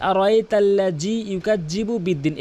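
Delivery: "ইউকাজ্জিবু" with a hard j; mistaken recitation. Shown as a demonstration. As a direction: demonstrate the common wrong reading, j instead of dhal. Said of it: "এভাবে তেলাওয়াত করে". (ভুল উচ্চারণে তেলাওয়াত, জিমের মতো জ)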